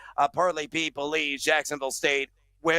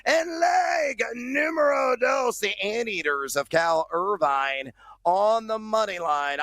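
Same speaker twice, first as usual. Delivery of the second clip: pirate voice; 4 semitones higher than usual. Acted. Parlay Pete voice picks.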